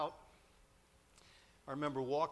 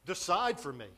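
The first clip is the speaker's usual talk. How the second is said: louder, mildly pleading retold appeal; desperate plea; 3 semitones higher, 6 dB louder than usual. Student begging his pastor to decide for him, mildly pleading. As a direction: beg someone else to choose for you. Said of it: "Now I'm ready to say".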